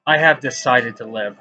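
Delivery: measured, declaimed poetry reading with pauses between lines; spoken-word recital, lifting at line starts and settling at the ends; poem reading. Acted. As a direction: recite it as your own poem, leaning on key words. Reads own poem aloud.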